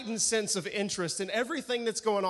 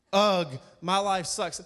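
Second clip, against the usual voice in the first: a loud, drawn-out mocking groan of self-pity; mock whiny complaint; 6 dB louder, much slower than usual. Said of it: "girls that get on Twitter and they go".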